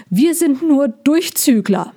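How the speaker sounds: a frightened hedgehog hurrying to explain; hasty hedgehog. Acted. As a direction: rush the words, nervous little hedgehog. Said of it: "sagte er hastig".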